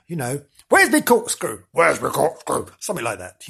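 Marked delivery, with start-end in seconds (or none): 0.7-2.7 gruff voice. Acted. Gruff cellar ghost hunting for his corkscrew, shouting. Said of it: "you know, something gruff".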